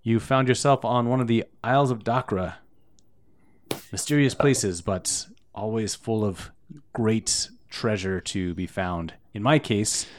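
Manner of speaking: lightly voiced chef, pleased with himself; a chef proud of his fame, only lightly voiced; chef NPC.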